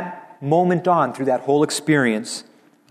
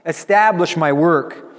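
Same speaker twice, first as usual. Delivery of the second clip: a touch of joy in a raised voice; joyful; 3 semitones higher, 3 dB louder than usual. Acted. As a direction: declare it with joy. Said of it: "he says it with joy".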